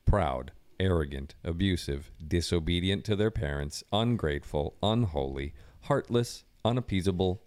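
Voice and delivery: solemn Bible reading; scripture reading. Acted. Reads scripture aloud.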